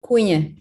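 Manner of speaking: Cunha as "KOON-ya", stress up front; surname demonstration. Shown as a demonstration. Presenter teaching moderator her surname, Cunha said as "KOON-ya". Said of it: "pronounce your last name".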